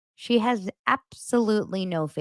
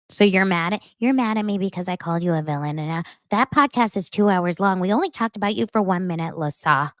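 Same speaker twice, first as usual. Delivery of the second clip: lightly voiced, quick Whitney jab; mock Whitney. Recapper imitating Whitney brushing off the villain comment. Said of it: "Whitney says something to Lisa".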